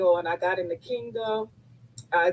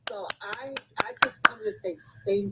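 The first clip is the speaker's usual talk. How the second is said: close to crying. Real, not acted. Guest thanking her mentor, close to crying. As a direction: voice thick with held-back tears. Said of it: "I'm about to cry again too".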